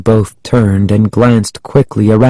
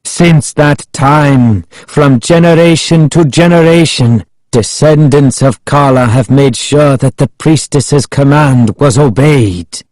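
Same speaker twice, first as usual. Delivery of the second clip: Ahmed proclaiming; 4 semitones higher than usual. A narrator's reading. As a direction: recite a sacred decree solemnly.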